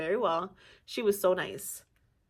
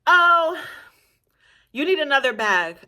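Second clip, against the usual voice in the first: breezy nurse voice; 7 semitones higher, 7 dB louder than usual. Retold or imitated.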